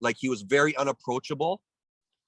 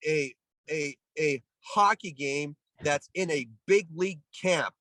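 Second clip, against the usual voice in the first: retold ranting; 5 semitones higher than usual. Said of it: "started screaming at the coaches".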